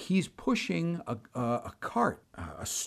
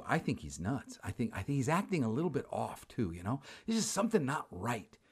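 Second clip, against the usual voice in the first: wary aside; 2 semitones lower, 8 dB quieter than usual. Retold or imitated. Wary private aside about stranger.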